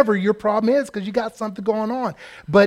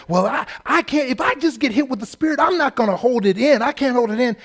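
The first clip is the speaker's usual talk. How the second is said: grandmother; 6 semitones higher than usual. Retold or imitated. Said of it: "she's like".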